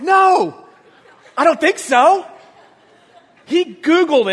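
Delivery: laughing through the answer; amused dismissal on the phone. Retold or imitated. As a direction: brush it off with a laugh. Retold reply, laughing.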